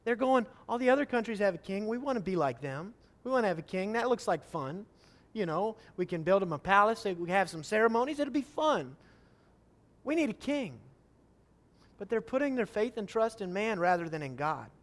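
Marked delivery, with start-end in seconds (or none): 0.7-10.8 put-on childish whine. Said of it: "childishness of their request".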